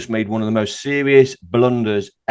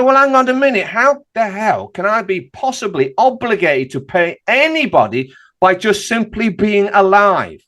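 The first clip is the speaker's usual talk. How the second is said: mock indignant challenge; 5 semitones higher than usual. Indignant retort to council solicitor.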